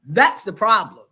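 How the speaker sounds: slow, drawn-out pauses, dropping to a hushed sigh; slow dramatic reveal. Retold or imitated. Wife revealing the problem to the therapist, slow and dramatic. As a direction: savour each word of the punchline. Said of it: "I said".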